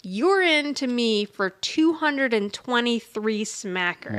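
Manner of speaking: drawn-out, lightly voiced gangster menace; slow mock gangster; gangster threat. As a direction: lean on the debt slowly, a hint of old-movie mobster. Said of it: "references to old gangster movies".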